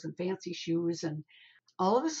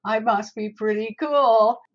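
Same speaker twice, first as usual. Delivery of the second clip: mock ego; 5 dB louder than usual. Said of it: "I understand that ego of".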